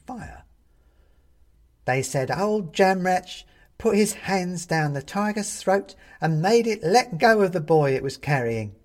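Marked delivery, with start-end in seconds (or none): 1.8-8.7 put-on high, loud old woman's voice; old china woman crying out, high and loud. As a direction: cry it out while rushing in. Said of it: "cries the woman".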